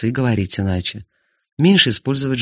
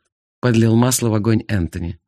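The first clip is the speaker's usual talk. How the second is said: usual speaking voice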